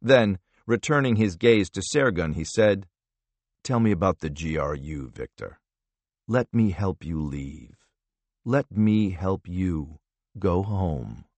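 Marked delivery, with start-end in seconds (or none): 3.6-11.2 coaxing interrogator. Acted. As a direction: draw it out like a kindly jailer. Vella coaxes broken prisoner.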